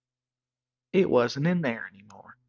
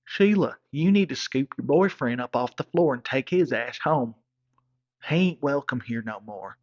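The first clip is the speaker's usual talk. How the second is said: angry father; 5 dB louder than usual. Retold or imitated. Father throws him out.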